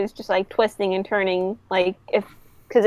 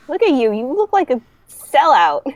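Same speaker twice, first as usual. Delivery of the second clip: raised, jeering putdown; mocking retort; 5 semitones higher, 4 dB louder than usual. Zephyr mocking Luffy's new life, jeering retort. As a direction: sneer it at a rival. Rivals' acted quarrel.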